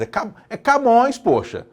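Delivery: "Camões" high and loud; it's Camões, come on; excited. Real, not acted. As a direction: exclaim "Camões" with mock disbelief. Mock outrage at doubting Camões.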